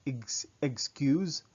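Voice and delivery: slow, loud "excuse" with a G in the X; English "excuse", X voiced like G-Z; English pronunciation. Shown as a demonstration. Teacher contrasts English "excuse" with French, slowly voicing a G in the X. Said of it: "as if there's a G in the X".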